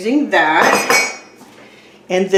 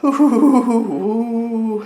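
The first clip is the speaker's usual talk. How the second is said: wavering hoot. Real, not acted. Sound made while moving things around.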